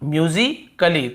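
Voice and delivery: musically stretched out very slowly; slow demo. Shown as a demonstration. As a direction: hold musically long so students hear each sound. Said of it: "यहाँ पर भी देखिए आप".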